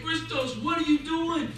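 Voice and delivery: high, sputtering rabbi's rebuke; acted yelling. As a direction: scold him, then sputter out. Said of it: "the rabbi starts yelling at him".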